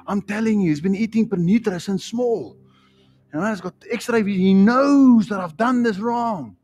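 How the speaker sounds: lightly acted guilty child, words stretched; worried naughty child. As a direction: fret like a child about to be found out. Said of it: "see your child's been naughty".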